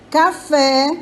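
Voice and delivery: "Café" with the weight on "fé"; stress on last syllable. Shown as a demonstration. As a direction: land firmly on the "fé" of "Café". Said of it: "o fé".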